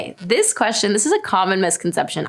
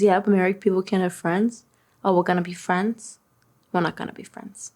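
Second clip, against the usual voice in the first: lightly put-on Long Island accent, trailing softer; Margot Robbie accent; 4 dB quieter than usual. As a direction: play a movie line with a hint of Long Island accent. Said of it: "There's my Margot Robbie Wolf of Wall Street impression".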